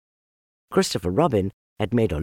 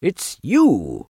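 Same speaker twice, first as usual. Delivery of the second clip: fussy; 6 semitones higher, 5 dB louder than usual. Acted. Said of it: "getting quite fussy".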